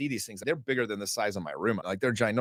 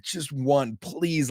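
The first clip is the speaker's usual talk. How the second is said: higher-pitched mock begging; retold pleading; 4 semitones higher, much slower than usual. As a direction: plead for it, pitch climbing on please. Begging for a shark in retelling.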